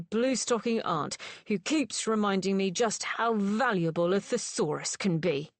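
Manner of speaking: a lightly voiced, scornful gentleman reeling off insults; sneering Mr. Thane. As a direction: pile on the contempt, word after word. Thane's sneering tirade at both.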